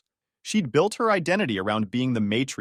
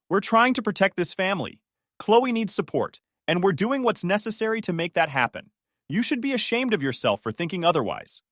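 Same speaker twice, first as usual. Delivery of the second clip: angry hiss; 8 semitones higher than usual. A narrator's reading. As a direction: spit it out in outrage. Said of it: "she hissed".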